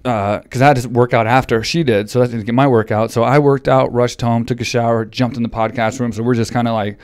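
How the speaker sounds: slightly winded talk; out of breath. Real, not acted. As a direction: still out of breath after workout. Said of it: "I'm kinda out of breath still".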